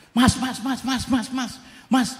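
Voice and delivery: high repeated calling; chasing a stranger, calling out. Retold or imitated. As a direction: call after the rider urgently. Calling after motorbike rider.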